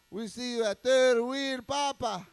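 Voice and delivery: loud announcer-like shoutout; hype shoutout. Acted. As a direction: plug the shows like a hype man.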